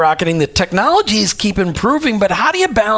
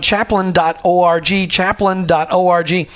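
slow careful spelling out; slower than usual. Real, not acted. Spelling out the website address.

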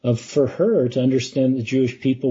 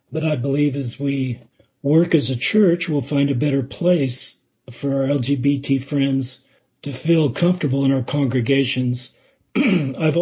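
losing voice. Real, not acted. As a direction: voice giving out, keep pushing through. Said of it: "sorry, I'm losing my voice".

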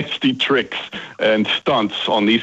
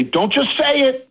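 higher, slow playful call; 13 semitones higher than usual. Retold or imitated. Dad calls the next motto line to his kids, slow high call. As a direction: stretch it out down the street. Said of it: "And I would say".

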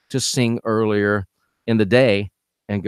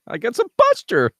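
squeaky high voice; 12 semitones higher than usual. Acted. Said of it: "do you hear the puberty there".

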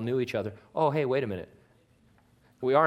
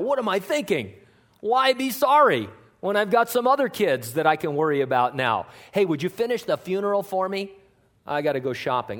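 mock grieving parent; 6 semitones higher, 4 dB louder than usual. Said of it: "the person and say".

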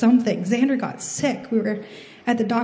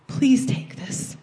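slow, hushed pleading prayer; a slow whispered surrender in prayer; whispered plea; 3 semitones higher, much slower than usual. Retold or imitated.

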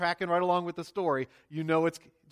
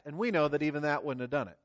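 ordinary delivery

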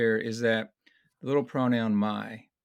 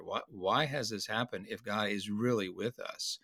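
doubting whisper; 6 dB quieter than usual. Retold or imitated. Voicing Gideon's doubting question.

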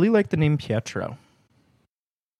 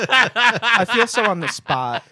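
higher, slower, through laughter; embarrassed laughing protest; 5 semitones higher, slower than usual. Real, not acted. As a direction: talk while laughing at being put on the spot. Laughing after being teased as liar.

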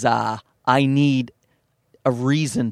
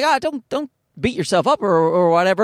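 mock consoling friend, pitched up; 6 semitones higher than usual. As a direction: reassure him lightly. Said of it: "he was like".

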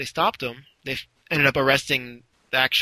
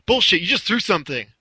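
higher mock accusing yell; retold cop yell; 4 semitones higher, 3 dB louder than usual. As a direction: accuse him as an imitated cop. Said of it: "Cop yells at him".

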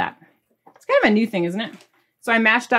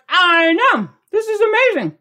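excited agreement; 10 semitones higher, 5 dB louder than usual. Retold or imitated. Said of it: "I'm like".

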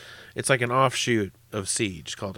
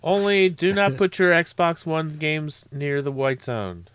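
slow, higher PA announcer voice; airport announcement; 7 semitones higher, 3 dB louder than usual. Pretend. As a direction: deliver it like an airport tannoy.

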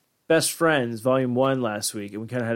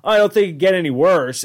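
exasperated; 6 semitones higher, 7 dB louder than usual. Retold or imitated. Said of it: "you sit there watching going, like".

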